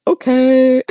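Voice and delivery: high, loud, drawn-out okay; baffled okay. Retold or imitated. Retelling their reaction to an absurd post, baffled.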